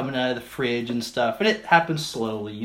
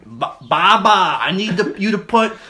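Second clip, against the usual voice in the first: put-on higher, louder, pleading man-child; whiny grandson; 9 semitones higher, 8 dB louder than usual. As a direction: beg grandma in a whiny pitch. Grandson begging grandma for curses.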